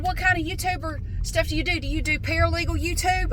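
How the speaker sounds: mock an over-curious small-talker; nosy caller. Siding guy prying into customer's YouTube work, high mock voice. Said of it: "He said".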